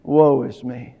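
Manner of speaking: imitated wail of despair, oi trailing down; mock wail. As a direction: wail the oi's like Tevye, fading out. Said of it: "and then he wails".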